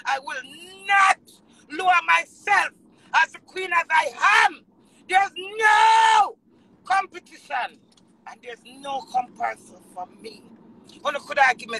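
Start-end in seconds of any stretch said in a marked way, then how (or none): 0.9-7.8 loud, rising to a drawn-out NO; emphatic declaration. Real, not acted. Queen declaring she has no competition, emphatic.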